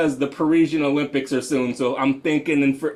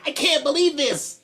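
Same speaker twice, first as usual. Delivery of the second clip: pretend disbelief; 10 semitones higher than usual. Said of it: "you're like".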